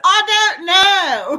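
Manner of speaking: put-on sheepish teen. Imitating sheepish teen answer.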